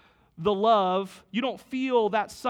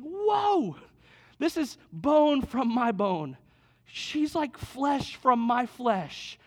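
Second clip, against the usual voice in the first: lightly voiced Adam, awed and drawn out, high on whoa; a gentle hint of a smitten Adam marvelling, slow; a touch of Adam's wonder at the woman; Adam amazed; 4 semitones higher, much slower than usual.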